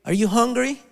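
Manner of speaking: mild yell, retold to an audience. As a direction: call over to someone in distress, pitch lifted. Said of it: "at some point I just yelled".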